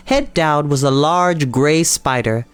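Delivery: ordinary delivery, nothing marked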